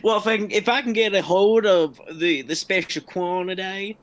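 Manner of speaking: put-on Southern accent creeping in; loosely held, playful Southern accent; slipping into Southern. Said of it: "transitioned from Well Dog to Souther in mid-sentence".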